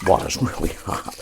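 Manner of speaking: laughing. Real, not acted. Laughing over the hot water.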